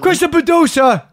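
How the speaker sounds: loud, high, slow call of the producer; mock Matt Serra calling for Chris; Matt impression. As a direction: bellow it out high and drawn out. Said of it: "I can't do your voice, just that moment".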